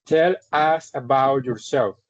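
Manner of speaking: each word of "Tell us about yourself" said slowly and clearly; teacher demonstrating the interview prompt slowly; slow model English. Shown as a demonstration. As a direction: model the English question for students. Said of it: "A esa persona yo le estoy diciendo".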